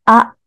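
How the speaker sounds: "あ" with the mouth opened wide all round; a loud, distinct model "あ", wide open; clearly articulated vowel. Shown as a demonstration. Coach demonstrating vowel practice to learners, clearly articulated "あ". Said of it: "口を全体的に大きく開ける".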